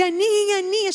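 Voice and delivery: high sing-song call. Acted. Father arriving home calling daughter, high call. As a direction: call her name up high.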